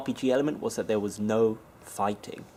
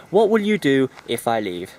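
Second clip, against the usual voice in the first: loud question; 7 dB louder than usual. Retold or imitated. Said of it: "his friend goes".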